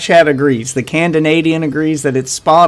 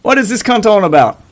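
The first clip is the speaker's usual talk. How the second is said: put-on British accent; mock British accent. Shown as a demonstration. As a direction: toss it off in fake British. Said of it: "What about British?".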